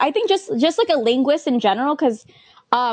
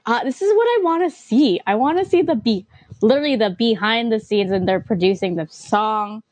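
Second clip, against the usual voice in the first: excited gush. Retold or imitated. Fan gushing to a friend about a studio clip, eager and bright. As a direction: voice the thrill of seeing behind the scenes. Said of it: "'cause it's like".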